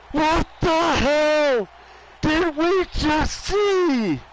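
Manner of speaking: high, slow cracking shout. Real, not acted. Commentator losing it over the win, voice cracking. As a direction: voice breaking with excitement. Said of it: "I just did a voice crack".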